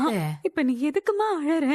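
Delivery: tearful. Acted. Daughter comforting weeping mother.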